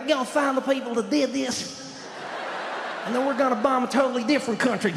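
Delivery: lightly voiced chuckly Texan; half-laughing through the line; George Bush impression. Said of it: "that weird chuckly thing".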